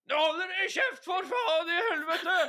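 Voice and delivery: very high shouted outburst; Anders Anundsen. Acted. Minister roars at children in the van, acted shout. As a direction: yell furiously out of a van window. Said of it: "så roper han".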